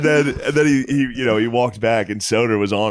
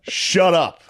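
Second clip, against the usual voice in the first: high, laughing mock heckler; laughing imitation; 9 semitones higher, slower than usual. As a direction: imitate the heckler through giggles. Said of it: "He goes".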